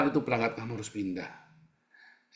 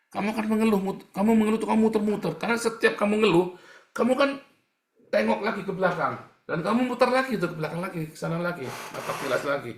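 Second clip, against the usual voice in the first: high, loud, fast rebuke of grumbling; fiery preaching; 10 semitones higher, 6 dB louder, faster than usual. Acted. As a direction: hammer the congregation with it. Preacher rails against complaining. (khotbah berapi-api, tinggi dan lantang)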